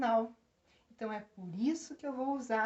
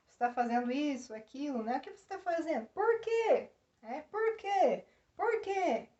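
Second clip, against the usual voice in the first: a hint of a pestering child, pitched higher; child asking why; 3 semitones higher than usual. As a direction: lightly imitate a kid repeating "por quê?". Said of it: "Que as crianças costumam perguntar". (imitando de leve uma criança que pergunta sem parar)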